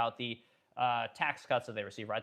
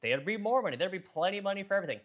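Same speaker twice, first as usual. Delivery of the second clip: higher, speeding up, mimicking naive critics; mock voice aping tax-the-rich critics; mocking whiny quote; 3 semitones higher than usual. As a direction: parody the people who want the rich taxed, rushing the end. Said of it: "And then they say".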